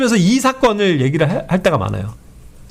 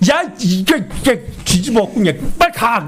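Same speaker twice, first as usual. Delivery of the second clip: mock angry yell; 2 semitones higher than usual. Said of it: "우리 같은 화면".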